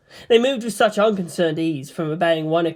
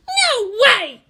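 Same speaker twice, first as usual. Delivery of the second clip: much higher and louder outburst; shrieking; 5 dB louder than usual. Acted. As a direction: refuse in disbelief. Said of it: "the pilot shrieked".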